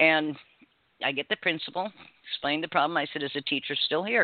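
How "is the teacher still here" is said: ordinary delivery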